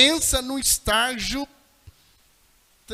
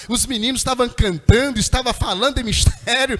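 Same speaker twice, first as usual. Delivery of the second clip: rising, louder testimony cadence; preaching build; 7 dB louder than usual. Real, not acted. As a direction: build to a ringing "glorificando a Deus".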